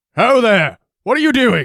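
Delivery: high, loud call, shouted downward. Voicing guards on a wall at an approaching train: guards shouting down from a wall. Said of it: "shouting down to you".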